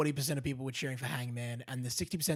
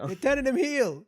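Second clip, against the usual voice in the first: excited announcement; 8 semitones higher, 6 dB louder than usual. Real, not acted. Repeats the shocking news.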